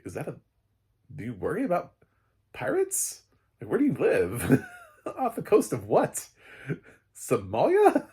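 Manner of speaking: mock disbelief, cracking up; incredulous laughing. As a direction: pitch jumps way up on pirates, laughing. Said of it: "And I'm like".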